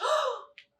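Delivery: sharp high gasp; a storyteller gasping at the magic change; surprised gasp. Acted. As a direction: gasp in wonder. Surprise at transformation.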